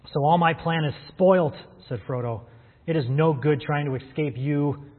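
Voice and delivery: reading a novel aloud with character voices; lightly acted book reading; story reading. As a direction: read it like a storyteller to the congregation. Reads Tolkien passage aloud.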